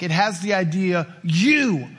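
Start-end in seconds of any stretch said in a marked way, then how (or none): 1.2-1.9 devil voice. Acted. Voicing the devil, emphatic.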